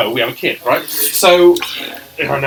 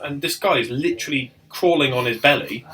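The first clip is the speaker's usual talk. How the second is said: laughing. Real, not acted. Laughing while telling story.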